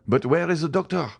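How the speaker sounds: high, urgent demand; agitated question, high-pitched; alarmed exclamation. A narrator's reading. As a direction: exclaim it in distress, pitch well up. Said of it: "exclaimed Villefort".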